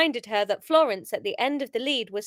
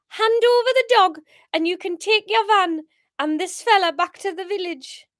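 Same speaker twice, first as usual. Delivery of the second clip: put-on Geordie accent; 7 semitones higher, 4 dB louder than usual. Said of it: "It should be a deeper voice".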